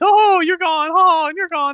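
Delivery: high, loud, slow, drawn-out funny voice. Retelling a video where someone acted out scenes with paper props: imitating a funny voice. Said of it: "have this funny voice".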